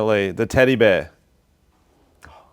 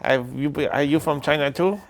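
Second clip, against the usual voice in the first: mock Chinese accent; 3 semitones higher than usual. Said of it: "do you not know that accent".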